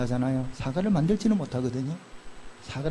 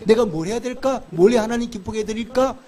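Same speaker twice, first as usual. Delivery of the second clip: David's eager musing; 4 semitones higher, 4 dB louder than usual. Retold or imitated. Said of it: "이렇게 생각하고".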